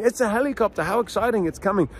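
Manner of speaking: high, excited helicopter hype. Retold or imitated. Dad repeating his helicopter hype to viewers, excited. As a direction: pump it up for the toddler. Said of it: "the words that I was saying".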